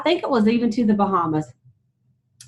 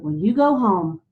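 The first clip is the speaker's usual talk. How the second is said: slow, gentle imitation of a kindly lady; a touch of tender earnestness, drawn out; soft, kind; slower than usual. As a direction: retell it slowly and kindly.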